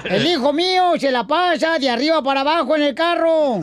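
lightly pompous campaign orator; mock politician rallying the crowd; booming balcony speech. Mock candidate speech continues. (discurso de candidato pomposo)

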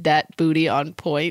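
low, drawn-out quote of a monster line; Cookie Monster imitation. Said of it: "Do you remember how you said".

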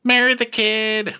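very high mock-exasperated squeal; hammed-up high-pitched insistence; exasperated urging. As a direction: squeal it as blunt, fed-up advice. Acting out adviser's blunt urging.

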